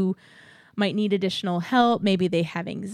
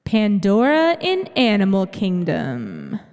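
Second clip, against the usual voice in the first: slow, drawn-out announcer voice; fighting game announcer; slower than usual. Shown as a demonstration. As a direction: announce it like a big match intro. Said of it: "let's get that announcer voice going again".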